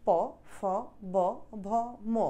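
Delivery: প ফ ব ভ ম said one by one with lips; lip consonants demo. Shown as a demonstration. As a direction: spell out each lip sound. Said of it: "ঠোঁট ধরে রাখো".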